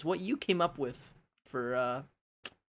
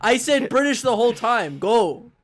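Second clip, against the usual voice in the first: loud, higher, impatient bark; exasperated shout; 8 semitones higher, 9 dB louder than usual. Real, not acted. Host ordering co-host to start the accent, exasperated. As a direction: shout over him to get on with it. Mock quarrel over the missed accent cue.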